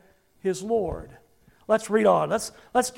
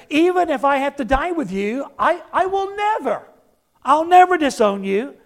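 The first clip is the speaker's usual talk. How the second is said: indignant vow; 3 semitones higher than usual. Acted. Peter protesting, voiced.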